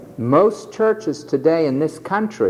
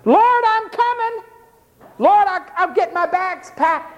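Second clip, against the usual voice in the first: eager disciple; 12 semitones higher than usual. Retold or imitated.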